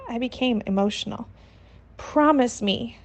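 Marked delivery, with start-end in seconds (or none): 2.0-3.0 demanding. Acted. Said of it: "she demanded".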